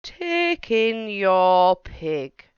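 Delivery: put-on slow, deliberate wise old man; measured advice from an old sage. Wise old man advising the lady, slow and deliberate.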